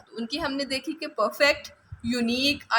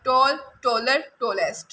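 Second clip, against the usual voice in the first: slow listing. Shown as a demonstration. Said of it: "जैसे टॉल".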